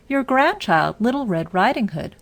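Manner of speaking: a wolf poorly pretending to be the little girl; wolf faking a girl's voice. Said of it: "changing his voice".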